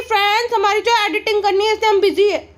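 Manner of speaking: lightly ape her sweet tone; mock vlogger. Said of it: "कहती है".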